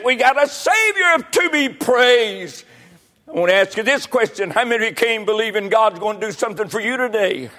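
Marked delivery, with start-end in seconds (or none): 0.0-2.6 shouted refrain. Real, not acted. Preacher rallying the congregation, slow triumphant shout. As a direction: proclaim "We got a Savior to be praised" at full force, leaning on "Savior".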